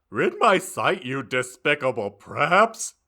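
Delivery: high, loud scornful shout; loud high contemptuous shout. A narrator's reading. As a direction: drive the intruders off with a yell. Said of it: "he shouted".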